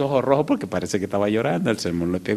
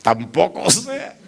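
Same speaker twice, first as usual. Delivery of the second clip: slow deadpan; 6 semitones higher, much slower than usual. Retold or imitated. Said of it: "No sé".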